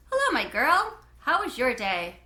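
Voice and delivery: a lightly voiced dad picking up his daughter; cheery dad greeting. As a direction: greet your girl with big warmth.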